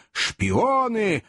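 high-pitched accusing cry; mob yell. A narrator's reading. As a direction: cry it out like an angry crowd. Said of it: "орала толпа". (крик толпы, не слишком громкий)

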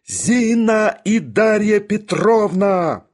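high, slow, drawn-out yell; yelling summons. A narrator's reading. Bormental summons the two women, yelling. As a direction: call them in at full cry. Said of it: "и завопил".

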